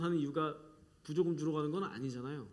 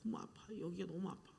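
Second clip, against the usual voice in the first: put-on whining child; 10 dB quieter than usual. Child complaining to mother.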